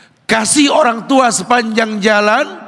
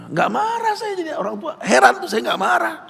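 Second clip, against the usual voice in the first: laughing; 5 semitones higher than usual. Real, not acted.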